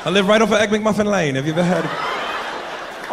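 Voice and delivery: bluffing in a mock English accent; put-on English accent, chatty. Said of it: "the accent is beautiful".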